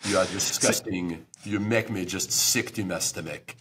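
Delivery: put-on comic French accent, disgusted tone. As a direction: sneer at Americans in a French accent. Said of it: "That sounds very French".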